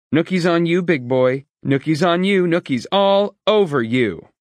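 high, loud sing-song taunt. A narrator's reading. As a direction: tease him like a schoolyard bully. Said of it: "pranced away, laughing and pointing".

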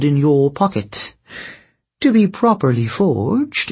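lightly voiced sly sorceress; silky, knowing queen telling her tale; scheming princess voice. Princess gives the tour.

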